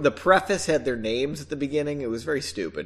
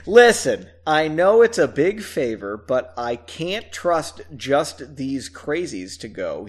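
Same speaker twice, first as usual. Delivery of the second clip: pleading. Acted. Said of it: "he pleaded".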